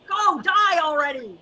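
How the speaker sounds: slow furious yell with a sob in it; angry shout. Acted. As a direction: scream it out, crying with rage. Yelling at someone to die.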